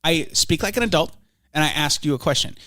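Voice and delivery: lightly voiced pundit, measured and prim; a hint of a sulky debater; Ben Shapiro impression. Ben Shapiro scolding the host's tone, lightly voiced. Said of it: "Ben Shapiro".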